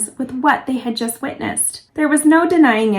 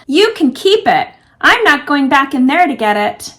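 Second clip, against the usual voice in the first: shouting back; 2 semitones higher, 5 dB louder than usual. Acted. Tony shouting back while running.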